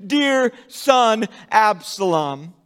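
a father crying out for his son; desperate cry. Acted. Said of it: "he begins to cry out".

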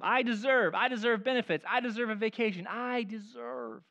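mock entitled son whining to Dad; entitled whine. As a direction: list what you're owed, sulking. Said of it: "Can you hear it in his voice?".

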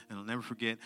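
normal talking voice

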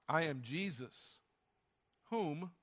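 low, soft, slow and solemn divine voice; a hint of a grave, hushed heavenly voice; voice of Jesus. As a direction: speak it low and gently, like a voice from heaven. Reply of Jesus' voice.

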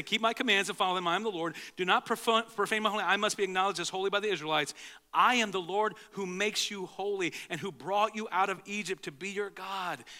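rereading the verse in a brisker voice. Shown as a demonstration. Pastor rereads the verse to the congregation, brisker. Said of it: "what's it say?".

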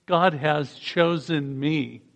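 "God has chosen me" spoken slowly, "God" falling; slow unison line; drawn-out declaration with the group; very slow repeat. Shown as a demonstration. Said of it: "Can you say that with me".

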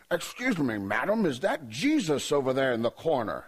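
lightly put-on English gentleman accent. English customer asking the waitress about Jesus, mock English accent. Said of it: "from England ... that accent".

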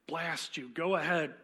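building to a loud bellow at the end; bellowing ghost. Acted. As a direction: blurt it out, desperate to get it done. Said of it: "bellowed the ghost".

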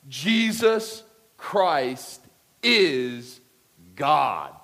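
Jesus Christ is God, each word slow, loud and apart; slow emphatic proclamation. Acted. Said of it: "And here it is. You ready?".

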